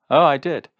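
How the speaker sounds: loud, high indignant retort; furious. A narrator's reading. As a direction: throw it back furiously. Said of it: "said Jim, furious".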